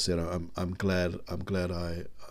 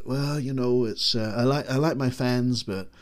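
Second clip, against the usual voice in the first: Pierce Brosnan impression; 5 semitones higher than usual. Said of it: "It will sound nothing like P S".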